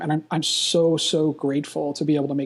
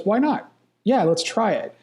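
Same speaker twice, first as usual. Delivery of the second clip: higher, rising, keen why not; eager yes; 6 semitones higher than usual. Retold or imitated. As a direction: sell the idea with eager lift. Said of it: "The person who says".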